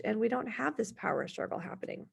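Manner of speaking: breathy unvoiced whisper; whispered trailing aside. Real, not acted. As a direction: drop to a whisper to finish.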